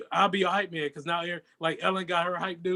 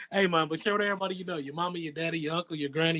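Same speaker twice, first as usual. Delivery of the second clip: fast hype announcer read; fighting game announcer; 4 dB quieter than usual. Shown as a demonstration. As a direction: punch it like a ring announcer. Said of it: "Practice it for your, uh, announcer voice".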